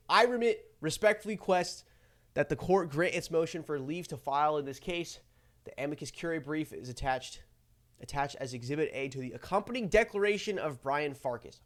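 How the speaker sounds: slow, stumbling hungover reading. Real, not acted. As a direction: struggle through it hungover. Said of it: "read so slow and so horrible".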